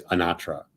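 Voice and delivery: Anatra stressed on the middle syllable, uh-NAH-truh; old American pronunciation. Shown as a demonstration. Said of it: "In the past, it was always".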